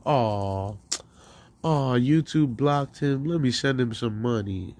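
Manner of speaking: a sarcastic, sing-song aw; mock pity. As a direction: ham up a donor's fake pity. Mocking donors' fake sympathy.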